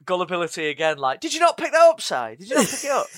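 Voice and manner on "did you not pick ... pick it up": high-pitched, teasing disbelief; mock incredulity. Teasing a friend over his gullibility, mock incredulous.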